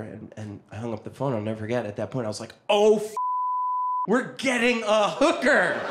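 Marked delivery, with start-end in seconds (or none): 2.7-5.8 punchy mock-thrilled yell; excited outburst. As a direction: burst out with giddy disbelief. Teen's excited realization retold.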